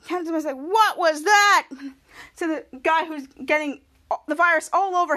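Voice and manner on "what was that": slow, grossed-out question; disgusted. Retold or imitated. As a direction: drag it out in disgust. Captain Man disgusted.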